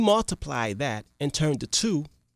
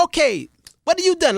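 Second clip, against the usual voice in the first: higher, louder sharp question; demanding king; 10 semitones higher, 4 dB louder than usual. Acted. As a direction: demand an answer. King questions last servant.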